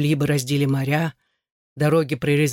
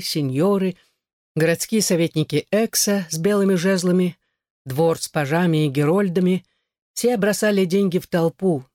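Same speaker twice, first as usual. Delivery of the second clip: plain reading voice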